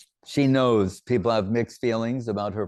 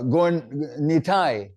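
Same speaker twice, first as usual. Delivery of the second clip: drawn-out call; 5 semitones higher, much slower than usual. Retold or imitated.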